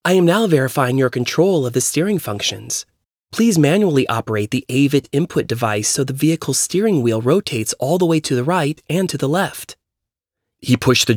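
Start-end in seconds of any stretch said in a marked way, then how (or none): 0.1-2.8 lightly voiced car computer; even automated system readout; robot voice. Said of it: "a robotic woman's voice spoke". 3.3-9.8 lightly voiced car computer; even automated instruction prompt; robot voice. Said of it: "a robotic woman's voice spoke".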